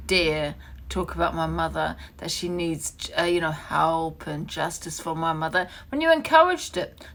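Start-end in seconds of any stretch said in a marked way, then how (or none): 5.9-7.0 angry. Real, not acted. Angry livestream rant at Pearl.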